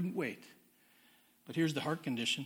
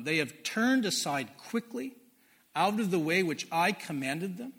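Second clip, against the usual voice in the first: scripture reading; 4 dB louder than usual. Acted. Preacher reading God's rebuke of Israel, loud solemn proclamation. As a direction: read it like God's own indictment.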